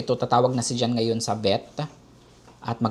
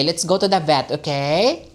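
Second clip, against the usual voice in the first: lilting pet talk, rising on okay; 4 semitones higher than usual. Real, not acted. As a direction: coax a beloved cat gently. Coaxing her cat to the vet.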